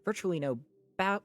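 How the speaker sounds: measured audiobook-style reading; story narration. A narrator's reading. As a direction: read it out as a novel's narrator. Reads a novel aloud.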